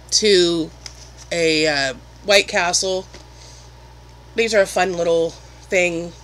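eating between words; talking while chewing. Real, not acted. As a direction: mouth partly full. Seen 1: holds snack at mouth, bites between phrases throughout.

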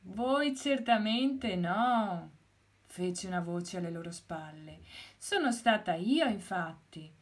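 unhurried tortoise owning up; mother tortoise. Acted. Mother tortoise speaks from behind.

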